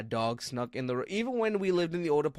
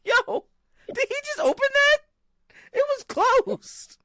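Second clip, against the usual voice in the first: high, slow, much louder squeal of disbelief; shocked disbelief; 4 dB louder than usual. Retold or imitated. Narrator retelling seeing his dog open a door, high shocked squeal. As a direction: squeak it out like you can't believe your eyes. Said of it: "I'm like".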